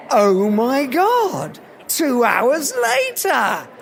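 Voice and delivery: slow, drawn-out amazement; amazed. Retold or imitated. Speaker amazed that Clinton remembered him, awestruck. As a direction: stretch each word in retold astonishment.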